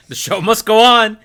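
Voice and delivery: high, loud laughing quip. Real, not acted.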